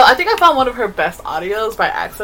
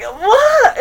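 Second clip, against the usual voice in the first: loud laughing "what?"; surprised shout; 12 semitones higher, 3 dB louder than usual. Retold or imitated. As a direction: blurt it out, half laughing. Friend texts about new audio.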